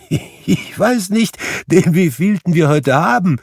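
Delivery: high, loud, giddy cry; excited cry. Acted. Scrooge cries out in giddy delight after the spirits. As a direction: call out in giddy confusion. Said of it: "rief Scrooge".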